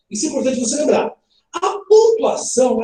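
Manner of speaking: ordinary talk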